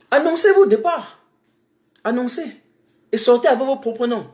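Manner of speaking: angry challenge. Real, not acted. Activist challenging fleeing officials, angry high demand. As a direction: throw the challenge at them. Daring officials to leave openly.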